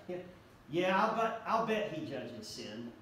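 sarcastic scoffing voice, dropping low at the end; mocking sneer. Shown as a demonstration. Preacher demonstrating how a scoffer mocks God, sneering. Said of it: "It would sound something like this".

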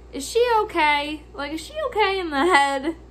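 incredulous questioning. Retold or imitated. Questioning the lady's sanity.

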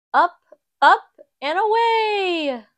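high, loud, soaring cry; excited lift-off. Acted. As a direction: let the voice fly up with the plane. Plane lifting off, exclamation.

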